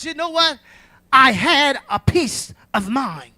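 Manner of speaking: testifying preacher, punching out each phrase; deliberate pulpit testimony; emphatic preaching. Real, not acted. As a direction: preach it out with measured force. Preaches testimony with rising force.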